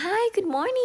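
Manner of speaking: high sing-song hello, softly voiced; cheery greeting. Dealer greets customer at the table, cheery greeting.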